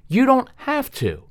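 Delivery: "You don't have to" high and slow, a sweet agreeable TV-dad lilt on "don't"; mock calm TV dad. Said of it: "sat down like Ward Cleaver".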